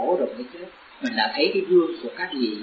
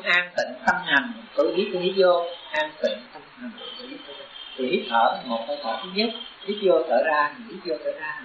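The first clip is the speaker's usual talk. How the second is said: breathing-practice recitation. Shown as a demonstration. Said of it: "một câu tác ý, hai hơi thở".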